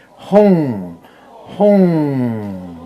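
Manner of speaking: "Hong" with a wide-open mouth, full and loud. Shown as a demonstration. Teacher showing the right syllable, loud open "Hong". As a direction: sound "Hong" fully voiced, mouth open. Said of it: "openly say".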